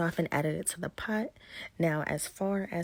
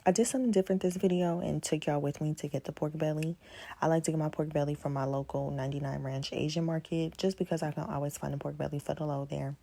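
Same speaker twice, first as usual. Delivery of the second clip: talking while chewing gum. Real, not acted. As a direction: speak around a wad of gum. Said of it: "Please excuse any gum chewing in this video".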